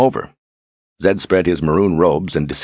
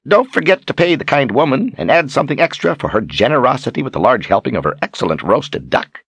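lightly voiced indulgent instruction, lilting higher; indulgent Zed; 8 semitones higher than usual. A narrator's reading. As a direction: humor her with sugary generosity. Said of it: "Zed smiled indulgently".

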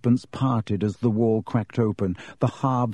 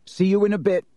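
shaky false confidence; 7 semitones higher, faster than usual. A narrator's reading. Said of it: "trying to inject some confidence into his shaking voice".

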